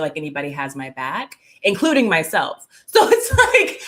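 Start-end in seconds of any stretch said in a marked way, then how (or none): 2.9-3.8 laughing it out through the words; amused laugh carrying the words. Real, not acted. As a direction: chuckle while you say it. Laughing after own confession.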